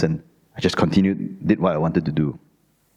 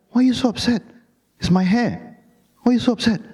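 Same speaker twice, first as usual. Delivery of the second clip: exasperated protest; 12 semitones higher than usual. Retold or imitated. Arguing back at his mum.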